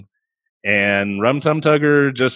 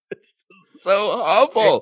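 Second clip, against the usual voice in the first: pained groan; 9 semitones higher, much slower than usual. Real, not acted. Groaning at a terrible scene.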